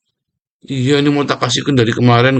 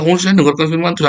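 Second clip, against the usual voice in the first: quick, higher smug voice; mock boast; proud mimicry; 5 semitones higher, faster than usual. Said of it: "Jangan bangga".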